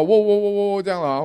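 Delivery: a puppy's high whimpering "喔喔喔喔"; imitated puppy whimper. Puppy on the cliff edge begging to be rescued, high whimper. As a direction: whimper like a little dog stuck on a cliff.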